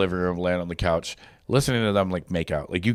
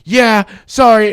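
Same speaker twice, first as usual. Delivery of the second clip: tag; 9 semitones higher, 9 dB louder, much slower than usual. Retold or imitated. Retold sheepish admission, acted big.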